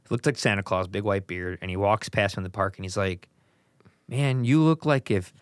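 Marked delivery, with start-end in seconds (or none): 4.1-5.3 lightly voiced stoner. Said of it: "he said it like a stoner".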